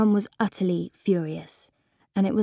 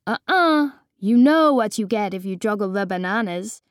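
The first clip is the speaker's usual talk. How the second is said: fake Peruvian accent; 3 dB louder than usual. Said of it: "talk in ... Peruvian accent".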